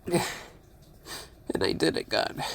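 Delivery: very soft, slow whisper through tears; slow broken whisper. Real, not acted. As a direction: let it out barely audible, drawn out. Whispered grief at cat's death.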